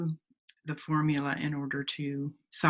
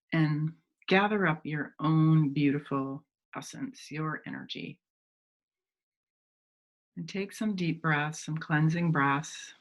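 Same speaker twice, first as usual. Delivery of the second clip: unhurried meditation guide, long pauses between phrases; measured phrases that invite visualizing; guided meditation. Real, not acted. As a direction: gently lead listeners inward, leaving space to breathe.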